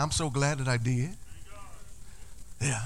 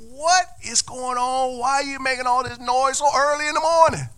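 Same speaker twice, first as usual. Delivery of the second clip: pig voice; 9 semitones higher, 5 dB louder than usual. Acted. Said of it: "it's just like".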